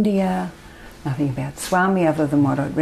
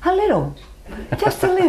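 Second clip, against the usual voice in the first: giggling understatement, much higher; laughing; 13 semitones higher, faster than usual. Real, not acted. Asked if Baba changed her life, answers laughing. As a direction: laugh through a playful understatement.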